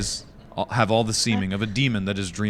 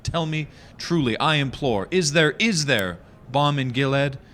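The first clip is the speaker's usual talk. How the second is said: high, pleading declamation; hammy stage actor; 4 semitones higher than usual. Acted. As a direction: beg the raven in full melodrama. Impassioned pleading to the raven.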